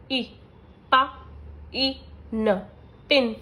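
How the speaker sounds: slow phonics blending with pauses; sounding out hat. Shown as a demonstration. Teacher showing short vowel examples, sound by sound. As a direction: say ए, हा, ए, ट as separate clipped sounds, then blend them into हैट. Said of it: "short vowel के कुछ examples हैं".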